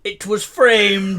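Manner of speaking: very slow, drawn-out delivery; slow punchline. Acted. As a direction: drag out the punchline.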